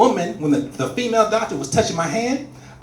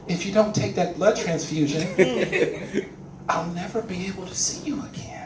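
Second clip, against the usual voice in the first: a hint of a sweet doctor; 3 dB quieter than usual. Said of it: "she's like".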